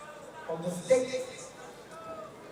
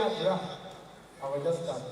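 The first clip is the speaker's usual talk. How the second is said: slow deep MC opening; 6 semitones lower, much slower than usual. Pretend. MC intro slowed, deep.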